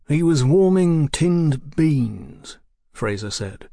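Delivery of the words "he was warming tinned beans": dour policeman. A narrator's reading. Voices the inspector Fraser.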